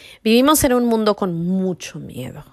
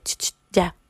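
put-on playful Castilian accent, raised on tío; a hint of a Spaniard from Spain calling out tío; mock Spain Spanish accent. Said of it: "como un español".

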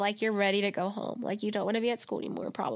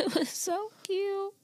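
laughing; 10 semitones higher, 3 dB quieter, slower than usual. Real, not acted. Gushing over cute cow video.

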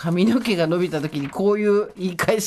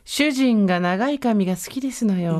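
put-on haughty rich girl japanese; slower than usual. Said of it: "あとこれ".

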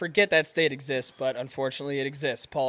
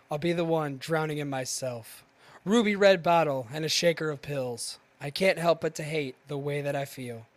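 dramatic poem reading. Acted. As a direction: read it like dark teenage verse. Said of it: "read a poem by a dead man".

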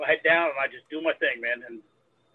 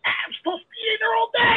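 retold yelling. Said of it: "He's yelling at me".

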